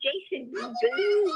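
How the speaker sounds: Voorhees drawn out into a booing oo; struggling pronunciation. Real, not acted. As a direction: stumble slowly into a long oo on Voorhees. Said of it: "You're, you're booing".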